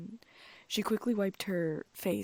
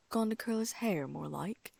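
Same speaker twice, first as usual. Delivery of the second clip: sneering aside; 3 semitones higher than usual. Acted. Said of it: "Ron sneered".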